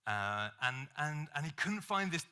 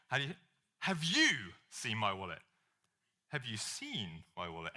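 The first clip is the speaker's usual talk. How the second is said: accusing implication; 3 semitones lower than usual. Retold or imitated.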